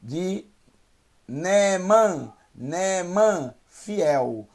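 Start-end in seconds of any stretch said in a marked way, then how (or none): 1.3-3.5 Neeman said clearly, stress on man; Hebrew word. Shown as a demonstration. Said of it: "Nun é a inicial de".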